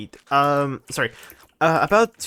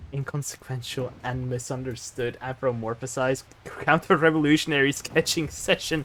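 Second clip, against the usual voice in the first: softer, steady and deliberate; measured, quieter enunciation; careful re-read; 4 semitones lower, 4 dB quieter than usual. Shown as a demonstration. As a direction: prove every word can be said. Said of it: "but you failed".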